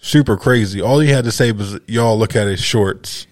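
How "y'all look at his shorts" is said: laughing callout. Retold or imitated. Storyteller repeating the shorts callout, laughing. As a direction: drag it out while cracking up.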